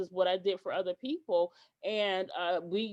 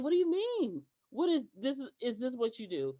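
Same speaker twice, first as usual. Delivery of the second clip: rising high and louder in disbelief; retold outrage, voice climbing higher and louder; indignant outburst; 5 semitones higher, 4 dB louder than usual. Telling the client off for missing her work, indignant. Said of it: "And I was pissed off".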